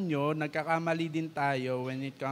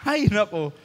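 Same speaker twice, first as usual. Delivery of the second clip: exasperated sigh; 5 semitones higher, 6 dB louder than usual. Retold or imitated. Child mimicking exasperated sigh.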